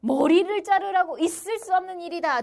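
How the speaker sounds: imitated exasperated complaint; acted popular outrage. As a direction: voice the outraged people, pitch held up. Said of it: "드디어 민중들이 폭발합니다".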